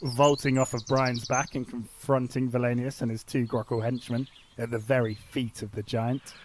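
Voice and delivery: storybook action narration; lightly dramatic narrator. Acted. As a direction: narrate the hero's move like a serial. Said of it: "do my narrator voice nicely".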